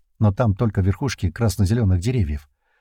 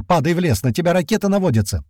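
high-pitched pressing order; urgent yell; 8 semitones higher than usual. A narrator's reading. Leader warning the pilot of rockets, urgent yell. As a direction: warn him before it's too late. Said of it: "снова заорал Туман".

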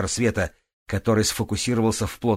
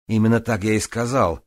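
mad scientist; 3 semitones higher, 5 dB louder than usual. Acted. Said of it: "Грист безумно расхохотался".

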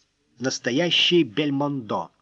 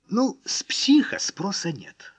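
whispered, breathy aside; 5 semitones higher than usual. A narrator's reading. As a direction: say it under your breath. Unvoiced line in character's thoughts.

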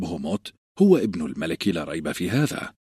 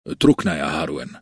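commanding; 8 semitones higher than usual. Acted. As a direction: dismiss him with authority. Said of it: "فقال نيد آمرا".

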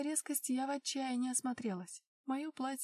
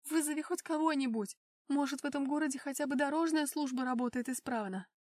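raised, insistent voice; urgent plea; 3 semitones higher, 4 dB louder than usual. Acted. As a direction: push him to act now. Heroine urges him to call. (настойчивая просьба)

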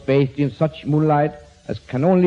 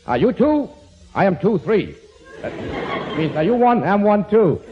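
sarcastic; 6 semitones higher than usual. Acted. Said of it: "But Bob just said sarcastically".

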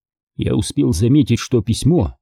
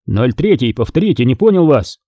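shouted. Acted. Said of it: "закричал я в микрофон".

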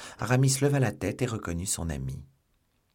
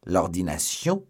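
slow incredulous question; disbelieving echo; stunned repeat; astonished cry; 3 dB louder, slower than usual. Acted. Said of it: "s'écria D'Artagnan".

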